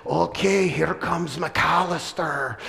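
slow, drawn-out announcer call; darts announcer. Retold or imitated. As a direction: draw out the name like a sportscaster, lightly voiced. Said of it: "as the announcer says".

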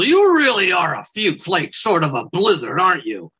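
snide weasel voice. Acted. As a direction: sneer it like a nasty weasel. Weasel insulting Dwayne.

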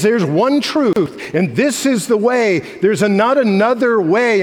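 loud, slow, firm; firm declaration. Retold or imitated. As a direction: lay it down as the one truth. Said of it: "And Jesus says".

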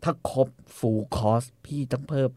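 slow, discreet question; gently feeling out the price. Acted. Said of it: "ทำเสียงนุ่มๆ".

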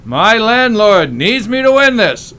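mock emotional plea. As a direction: fake heartfelt begging, drawn out. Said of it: "You need to feel it".

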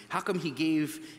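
acting out jealous, put-out disciples; mildly aggrieved, mock-jealous protest; jealous complaint. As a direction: complain like an envious follower passed over. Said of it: "you imagine they're jealous".

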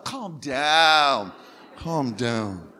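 drawn-out, singsong calm down; lovingly. Shown as a demonstration. Preacher coaching the congregation to soothe a neighbour, lovingly. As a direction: say it like you love them, stretching it out. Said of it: "Tell them like you love them".

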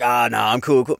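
retold nonchalant dismissal; playing it cool. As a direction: act casual to cover nerves. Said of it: "trying to play it off like".

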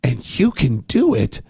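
quick, mock reporter read; imitating the reporter. To his co-host, aping the reporter, fast and smug. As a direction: rattle it off like the reporter. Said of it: "The way he says this".

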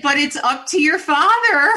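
mother delivering the punchline to friends, laughing loudly. Real, not acted. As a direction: blurt the line through real laughter. Laughing punchline of the dog story.

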